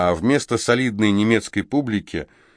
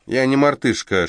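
snapping back; 5 semitones higher than usual. Acted. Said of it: "огрызнулся карлик".

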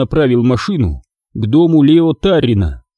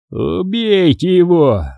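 slow furious hiss, higher; hissed in fury; 6 semitones higher, slower than usual. Acted. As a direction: spit "Убейте его!" out as a furious hiss. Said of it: "прошипел он".

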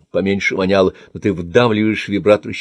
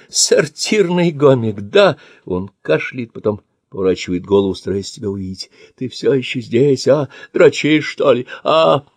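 taunting sneer; 4 semitones higher than usual. Acted. Old man taunting attacker.

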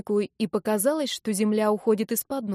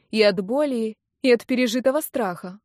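usual speaking voice

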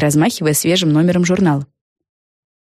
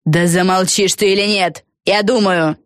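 irritated snap, only slightly raised; mild bark; 2 semitones higher than usual. Acted. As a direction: cut your friend off, annoyed. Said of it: "рявкнула Фелисити Бет". (раздражённо, негромко рявкает)

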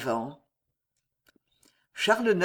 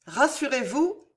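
gentle dignity; 7 semitones higher than usual. Acted. Jeanne reassuring the distressed Marie, gentle and dignified. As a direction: reassure her kindly. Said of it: "avec cette dignité douce et simple".

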